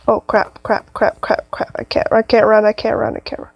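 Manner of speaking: rapid frantic repetition; panicked muttering. Real, not acted. Player unable to run from danger, panicking. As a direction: repeat it in a breathless rush of panic.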